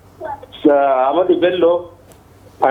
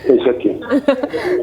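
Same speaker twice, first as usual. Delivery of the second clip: laughing; 7 semitones higher, much slower than usual. Real, not acted. Caller laughs along with host.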